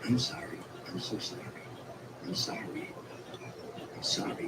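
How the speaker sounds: hushed, breathy apology into the mic; retold whispered sorry; whispering apology. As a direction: whisper it, lost and ashamed. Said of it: "he started whispering into the microphone".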